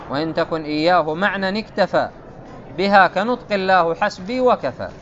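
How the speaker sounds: chanted verse, even and measured; poem recitation. Acted. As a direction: intone the line of verse like a memorised poem.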